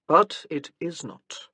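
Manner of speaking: slow, weary and resigned; resigned sigh. A narrator's reading. Husband concedes to wife, slow and resigned. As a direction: let it drag out like a defeated sigh. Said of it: "He sighed again".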